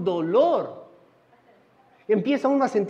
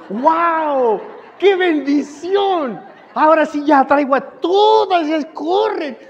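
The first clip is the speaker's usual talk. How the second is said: higher and louder, slow gushing joy; delighted exclaim; 6 semitones higher, 7 dB louder, slower than usual. Acted. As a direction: burst out in hammed-up delight. Acting delighted at adoring old ladies.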